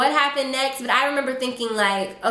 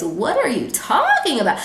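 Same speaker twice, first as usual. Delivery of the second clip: half-laughing, higher-pitched disbelief; incredulous; 4 semitones higher than usual. Retold or imitated. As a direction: stretch TALKING high, as if the accusation is absurd. Acted reply to a false accusation.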